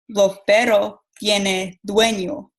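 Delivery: "Los perros tienen dueño" with the s sounds dropped, Cuban style; Cuban Spanish. Shown as a demonstration. Student showing the class Cuban speech, weak consonants. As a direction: soften "perros" and drop the final s of "dueño". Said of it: "pero en Cuba dicen".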